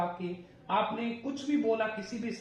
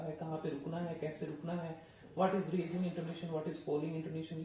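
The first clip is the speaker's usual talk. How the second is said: slow deliberate listing; 3 semitones lower, 4 dB quieter than usual. Shown as a demonstration. Teacher listing intonation topics.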